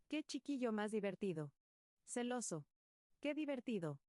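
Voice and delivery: lightly voiced young woman, teasing and amused; a touch of laughing mockery. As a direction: tease the boy with a smile in the voice. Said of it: "decía la muy".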